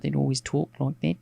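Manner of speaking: lightly imitated Australian TV presenter accent. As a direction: mimic an Australian kids' presenter, lifting the ending. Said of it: "My presenter accent".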